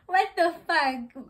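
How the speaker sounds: loud, slow, disbelieving what the fuck; outraged and amused; shocked disbelief. Real, not acted. Laughing disbelief at neighbor.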